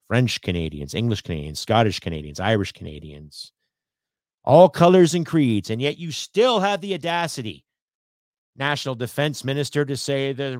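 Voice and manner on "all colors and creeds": louder and slower, each word landed; emphatic climax. Real, not acted. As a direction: punch home all colors and creeds. Listing diverse MPs, climax.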